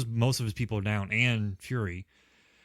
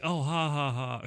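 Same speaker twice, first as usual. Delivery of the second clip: corny fake laugh; 3 semitones higher than usual. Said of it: "doing that corny, like, laugh line".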